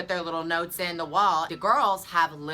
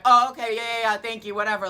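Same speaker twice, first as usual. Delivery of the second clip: much higher, much louder mock brush-off from the man; dismissive brush-off; 7 semitones higher, 8 dB louder than usual. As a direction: toss it off like he couldn't care less. Rude man brushes her off.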